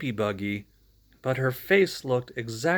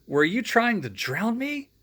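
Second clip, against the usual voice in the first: shout; 9 semitones higher than usual. Acted. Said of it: "Winston shouted".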